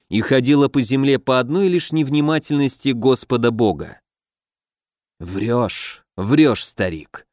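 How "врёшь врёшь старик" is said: low mocking scoff; smirking. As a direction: sneer it at the old man. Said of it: "усмехнулся".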